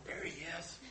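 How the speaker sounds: a fond, hushed little announcement; Marley. Retold or imitated. Pastor imagines his dog greeting him in heaven, soft playful voice. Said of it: "Marley will be right behind him going".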